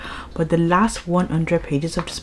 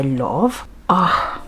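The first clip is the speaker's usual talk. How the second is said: dreamy whisper; 3 semitones lower than usual. Real, not acted. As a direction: whisper it like a secret crush. Swooning over her new series.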